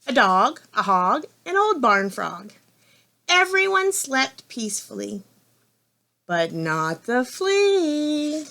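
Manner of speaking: measured list, then a drawn-out ending; story reading to children. A narrator's reading. Reader telling children who slept, measured storytelling with slow ending. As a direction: stretch the last phrase for suspense. Reads the picture book aloud.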